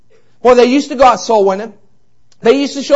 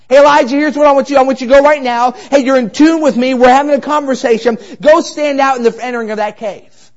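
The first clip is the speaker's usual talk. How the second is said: louder, urgent, a little quick; God calling Elijah; 4 semitones higher, 4 dB louder than usual. Acted. God urging Elijah to step out of the cave, commanding. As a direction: call him out like God summoning a prophet.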